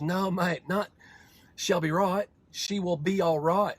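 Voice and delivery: slowly spelling out she will be all right; slowed down explanation. Retold or imitated. Kiwi mates slowly explain the phrase, drawn out. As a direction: say it slow so the American gets it. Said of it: "I had to slow things down".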